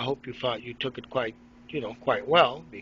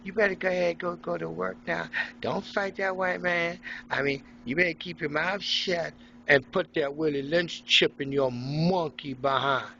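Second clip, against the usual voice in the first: mock African princess voice; 4 semitones higher than usual. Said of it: "Your beautiful African princess is the one telling you".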